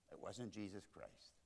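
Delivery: "wasn't" leaned on, then the line drops to a near-hush; hushed repeat. Shown as a demonstration. Preacher repeats his point to the church, hushed and soft. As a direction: echo it softly, almost to yourself. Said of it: "And it wasn't Jesus Christ".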